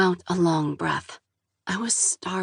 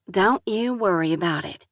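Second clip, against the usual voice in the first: southern drawl. Acted. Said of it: "thick southern drawl".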